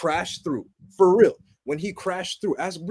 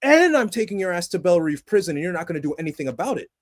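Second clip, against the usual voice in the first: defiant Superman; 6 semitones higher, 4 dB louder than usual. Retold or imitated. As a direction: declare it to lost young men, fired up. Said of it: "Superman openly coming to you saying".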